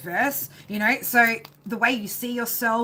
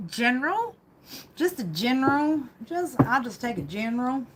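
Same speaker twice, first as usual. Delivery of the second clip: odd, playful delivery. Real, not acted. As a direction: stretch it out, a little silly. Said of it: "said that like that".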